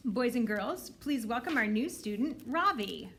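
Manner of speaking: a teacher introducing a new student; bright teacher voice to the class; teacher announcing. Acted. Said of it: "Missus Beam says".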